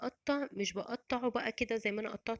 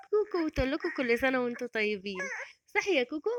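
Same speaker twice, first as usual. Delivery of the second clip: loud, cheery pet-talk greeting; playful and loud, rising into a coo; 3 semitones higher, 4 dB louder than usual. Real, not acted. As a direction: pass on Koko's greeting, lifting high to check with the pet. Greeting viewers on pet Koko's behalf.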